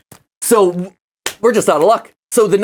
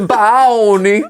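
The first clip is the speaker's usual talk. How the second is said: cheeks stuffed full. Real, not acted. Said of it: "three syllables now".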